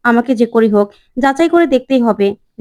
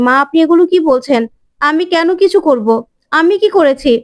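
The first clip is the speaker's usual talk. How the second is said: shocked protest; 4 semitones higher than usual. Acted. Bani shocked by accusation.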